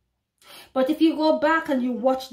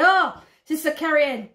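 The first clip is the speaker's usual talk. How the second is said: mocking doubter. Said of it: "brothers and sisters will say".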